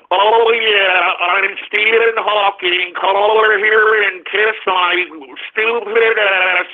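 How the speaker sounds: lightly voiced slowed robot voice; a half-hearted imitation of a speech synthesizer; mock voice box. Host mocks the scientist's voice box, slow robotic parody. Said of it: "told you all about the little voice box".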